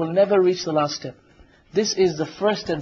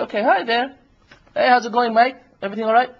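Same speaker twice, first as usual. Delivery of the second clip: friendly mock greeting, a touch higher; nice, cheerful; 5 semitones higher, 3 dB louder than usual. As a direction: greet her breezily, lightly acted. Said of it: "nice, cheerful".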